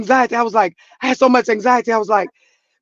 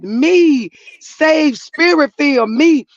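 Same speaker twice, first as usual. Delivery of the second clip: indignant emphasis; 4 semitones higher, slower than usual. Real, not acted. Stressing her own faithfulness.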